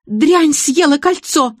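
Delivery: high, loud, slow furious shriek. A narrator's reading. Bride shrieks at the dog that swallowed her ring, furious. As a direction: scream it as the ring vanishes. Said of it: "завопила Зоя Игнатьевна".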